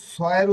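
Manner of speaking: স said as a hissed "s"; plain s sound. Shown as a demonstration. Teacher listing the last sound, স as hissed "s". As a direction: start স with "s" as in sun. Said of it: "আবার হচ্ছে".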